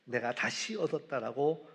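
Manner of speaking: half-shouted rejoicing, swelling on the middle line; retold joyful shout. Father shouting to the village that his lost son is found, rising joyful call. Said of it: "소리치고 있다".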